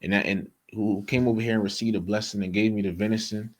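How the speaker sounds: put-on a confused old man demanding answers; mock bewildered questioning; imitating flustered Isaac. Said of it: "Pretty much, he was like".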